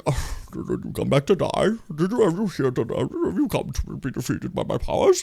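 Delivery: lightly voiced menacing villain; a hint of a gloating baddie; Skeletor villain voice. Imitating Jared Leto's Skeletor from the trailer, lightly menacing. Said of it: "So he's like".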